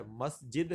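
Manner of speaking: مسجد slowly as mas-jid; pronunciation option. Shown as a demonstration. Teacher offers a choice, slow pronunciation. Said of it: "درست تلفظ کیا ہے".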